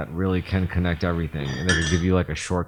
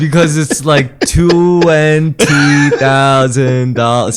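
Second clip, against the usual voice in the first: mock outrage; 8 semitones higher, 12 dB louder, much slower than usual. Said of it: "That's terrible".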